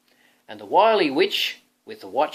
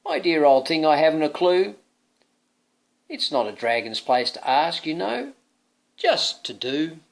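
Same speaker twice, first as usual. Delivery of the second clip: posh dragon voice; 3 semitones higher, 4 dB louder than usual. Acted. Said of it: "The dragon scratched his scaly head and said".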